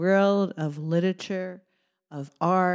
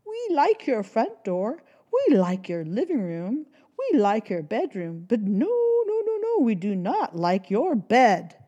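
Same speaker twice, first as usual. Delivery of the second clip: alarmed bees; 4 semitones higher than usual. Acted. Bees protest.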